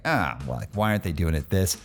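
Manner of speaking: mock critic from the sidelines; lightly voiced armchair critic. Host mocks sideline critics in a lightly voiced critic tone. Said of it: "I went into my critic voice".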